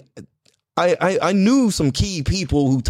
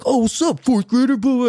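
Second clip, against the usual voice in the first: higher-pitched mocking jeer; bullies' taunting; 9 semitones higher than usual. Sixth graders picking on a fourth grader, mocking taunt. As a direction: imitate a taunting older kid, pitched up. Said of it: "they start talking shit like that".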